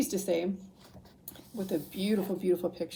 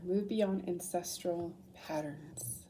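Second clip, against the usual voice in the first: whispering; 5 dB quieter, slower than usual. Acted. Slow reading of a card.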